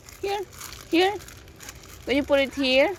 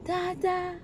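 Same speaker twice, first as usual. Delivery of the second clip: put-on "Dada" said higher and fuller for the child; clear model word; 6 semitones higher than usual. Shown as a demonstration. Mother prompts her toddler to say "Dada" again, higher. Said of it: "Say it again".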